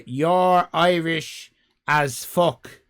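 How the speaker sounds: slow, loud shout of the comment. Acted. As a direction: bellow it slowly, word by word. Reading a chat comment aloud.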